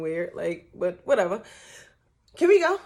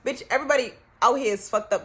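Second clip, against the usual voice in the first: loud exasperated retort; 4 semitones higher, 6 dB louder than usual. Retold or imitated. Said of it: "We like".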